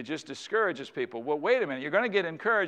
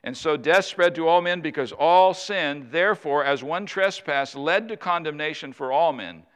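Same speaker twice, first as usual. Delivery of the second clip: scripture reading; 4 dB louder than usual. Acted. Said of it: "Notice what he says".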